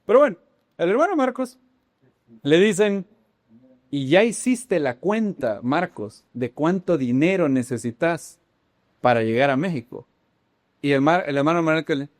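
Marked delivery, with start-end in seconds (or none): 3.9-10.1 put-on Argentine accent. Congregation questioning Marcos on costs, mock Argentine accent. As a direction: draw out the question with an Argentine lilt. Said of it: "en acento argentino debió haber sido".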